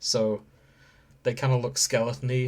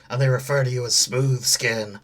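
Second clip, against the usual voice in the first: rasping ghoul voice, a touch louder; 6 dB louder than usual. Shown as a demonstration. Explaining to Grace how ghouls talk, rasping ghoul voice. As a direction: rasp it out like a rotting ghoul. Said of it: "talk a little bit like this".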